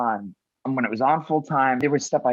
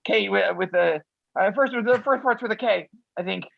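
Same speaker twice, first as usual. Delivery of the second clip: flustered fan; 7 semitones higher than usual. Retold or imitated. Flustered fan forgets own name.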